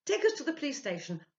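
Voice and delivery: alarmed loud cry; urgent cry. A narrator's reading. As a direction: press it on him in horror. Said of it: "cried Ludwig".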